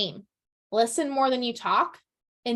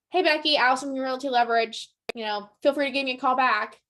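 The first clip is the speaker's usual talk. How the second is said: rote, bare-bones message to skip; generic voicemail; 2 semitones higher than usual. Shown as a demonstration. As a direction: rattle it off like a template. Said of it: "Don't just say".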